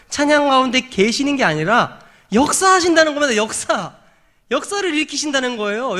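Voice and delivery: high, forceful proclamation; impassioned preaching. Real, not acted. Preacher declares to congregation that God works in praise, impassioned preaching. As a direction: lift the pitch and declare it.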